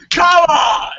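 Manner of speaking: hammed-up outraged shouting; emotional breakdown. Podcaster replaying his upset at Wrestling Ranting, melodramatic shouting. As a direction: yell it like you're emotionally breaking down. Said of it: "I'm, like, emotionally breaking down".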